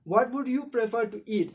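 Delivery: slow dictation pace; slow reading. Shown as a demonstration. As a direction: read it out slowly to the class. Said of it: "आप देखो". (धीरे पढ़ाते हुए)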